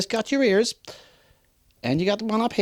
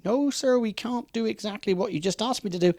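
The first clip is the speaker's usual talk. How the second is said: polite refusal to a customer; 3 semitones higher than usual. Shown as a demonstration. Salesman to a demanding customer, polite and firm. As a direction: turn the customer down politely, stretching the however. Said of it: "the trick is to say no, however".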